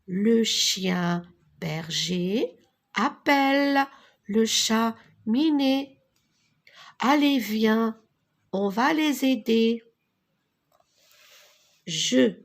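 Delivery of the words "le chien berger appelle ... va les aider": slow group repetition. Shown as a demonstration. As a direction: lead the class repeating together. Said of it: "On répète tous ensemble". (répétition collective lente)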